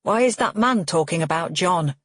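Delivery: a touch too loud, unaware of the room; confused old man speaking too loudly. Acted. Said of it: "too loudly".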